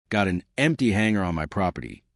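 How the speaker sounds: put-on light Texas accent, easy and unhurried; old vet with a slight Texas drawl. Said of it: "that slight Texas drawl".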